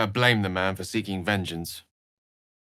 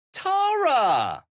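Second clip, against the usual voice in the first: high, louder surprised cry of a name; surprised call; 4 dB louder than usual. Acted. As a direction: call out in startled recognition. Calling out to his cat.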